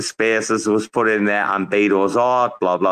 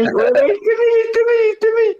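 excited calling out; 4 dB louder than usual. Real, not acted. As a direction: hail a friend who just walked in. Excitedly calling out to arriving Timmy.

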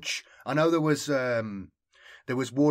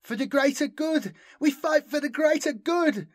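high, impassioned rallying shout; battle cry; 5 dB louder than usual. A narrator's reading. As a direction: cry it out like a zealous battle slogan. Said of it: "cried Nuri".

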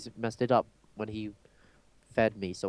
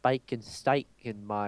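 put-on Southern accent. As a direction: keep the mock Southern twang going. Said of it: "I could go all Southern".

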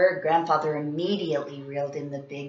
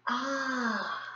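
ah; 6 semitones higher, 7 dB quieter than usual. A narrator's reading. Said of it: "Everyone said".

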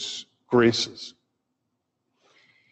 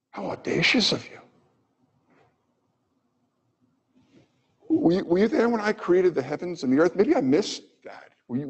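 higher, incredulous voice of God; God's rebuke; 4 semitones higher than usual. Retold or imitated. God asks Job whether he was there at creation, incredulous. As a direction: play God rebuking a presumptuous man.

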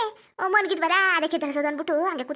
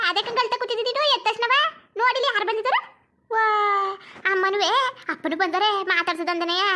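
playful scolding to babies; 2 semitones higher, 3 dB louder than usual. Real, not acted. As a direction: tease the babies for crying. Mother mock-scolding waking babies. (ಮಕ್ಕಳನ್ನು ತಮಾಷೆಯಾಗಿ ಗದರಿಸುವ ಎತ್ತರದ ದನಿ)

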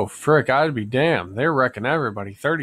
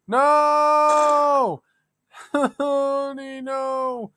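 high furious yell; 12 semitones higher, much slower than usual. Real, not acted. Yelling at the teammate who stole his kill, high and outraged. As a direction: scream it high, half laughing in disbelief.

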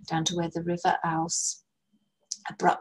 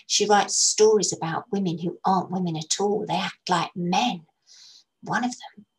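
air of authority. Acted. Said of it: "Letty said with an air of authority".

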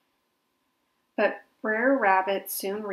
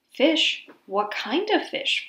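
eager; 5 semitones higher, slower than usual. A narrator's reading. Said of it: "Fox asked".

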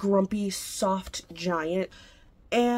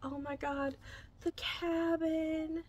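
awed hush; 8 semitones higher, 8 dB quieter, slower than usual. Real, not acted. Awed by a special edition.

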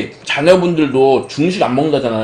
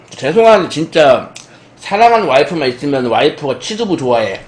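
ordinary delivery

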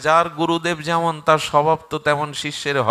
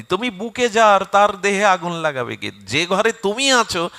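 raised, loud fervent declaration; impassioned devotion; 4 semitones higher, 6 dB louder than usual. Acted. Hanuman to Ram who lives in his heart, impassioned. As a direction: proclaim total faith in your lord.

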